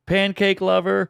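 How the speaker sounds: high, slow heckle, no real volume; mock hillbilly yell. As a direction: imitate a passing yell, stretched out. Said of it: "yells out".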